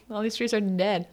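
soft eerie whisper. Acted. Wanda revealing to Strange she is lost, whispered. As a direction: hush it like a dark secret.

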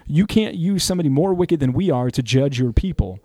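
high-pitched protesting objection; Habakkuk. Acted. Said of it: "And Habakkuk says".

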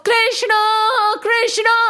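high calling shout; shouting a name. Acted. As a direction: call his name out to the whole village. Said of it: "There was an echo of".

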